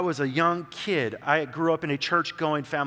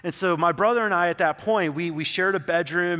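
ordinary delivery

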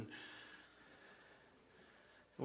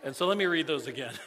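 laughing through the words, louder; 8 dB louder than usual. Real, not acted. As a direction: chuckle at the phone mishap. Laughing after phone read aloud.

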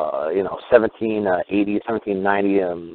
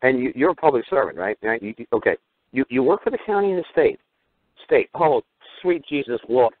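smiling mock glee. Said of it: "when I just smile and go".

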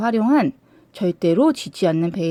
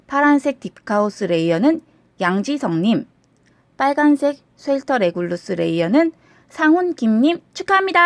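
booming prize announcer; 5 semitones higher than usual. Acted. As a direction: call out the winners like a game show host.

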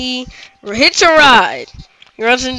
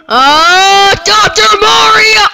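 surprised cry; 8 semitones higher, 4 dB louder, slower than usual. Real, not acted. Sudden surprise during gameplay.

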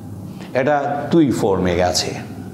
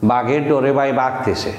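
Sylheti speaker trying standard. Shown as a demonstration. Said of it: "তারা বলবে".

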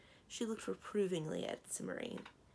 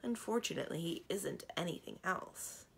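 unenthusiastic. Acted. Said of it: "without enthusiasm".

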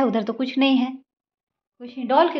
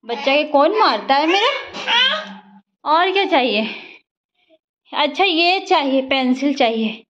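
put-on high cooing to a toddler; mother asking toddler what she wants, cooing; baby talk; 4 semitones higher than usual. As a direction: coax gently in a high lilt.

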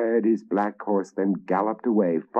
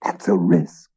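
objecting; 5 dB louder than usual. A narrator's reading. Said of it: "objected the others".

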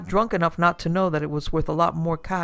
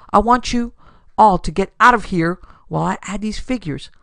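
gruff order; 3 semitones higher, 5 dB louder than usual. Acted. Gruff father orders everyone out.

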